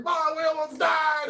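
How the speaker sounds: high, loud panicked shout; imitated flipping out. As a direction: mimic a hysterical teen yelling to his mom. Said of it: "flipping out and shit".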